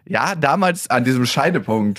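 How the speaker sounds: hammed-up look back at a fateful moment; mock reproach. Parent playing the jailed daughter looking back, mock reproach. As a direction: pretend to be an accusing convict. Acting out daughter later in prison.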